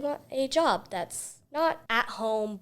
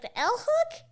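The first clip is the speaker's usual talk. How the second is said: confused question; 14 semitones higher than usual. Retold or imitated. Confused reply to old lady.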